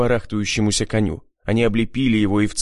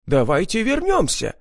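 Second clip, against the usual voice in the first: high, panicky squeal; 10 semitones higher than usual. A narrator's reading. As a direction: shriek it, desperate to turn back. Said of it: "взвизгнул Зиновьев".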